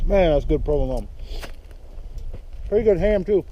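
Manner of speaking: talking with mouth full; chewing while talking, mouth full. Real, not acted. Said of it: "I think I'm chewing with my mouth full".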